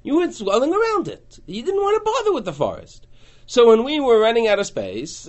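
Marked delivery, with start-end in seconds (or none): 0.0-3.1 a hint of an indignant settler, higher; lightly voiced proud settler; Ephraim settler. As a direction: speak as the wronged tribe, raised. Teacher voicing Ephraim settlers.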